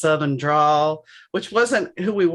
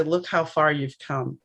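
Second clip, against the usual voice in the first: tender; 4 dB quieter than usual. Retold or imitated. Speaking to her younger self.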